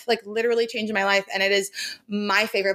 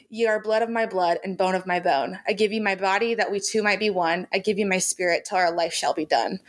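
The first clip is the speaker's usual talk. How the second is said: lines read as a heartfelt wedding vow; 2 semitones lower than usual. Shown as a demonstration. Reading Jamie's vow to Claire, tender recital. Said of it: "Jamie tells Claire".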